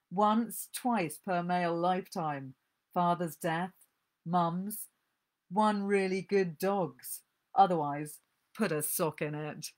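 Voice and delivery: caustic, dry reading of a mother's voice; story reading. Acted. Book reviewer reads the caustic mother aloud, dryly. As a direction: read it out with biting relish.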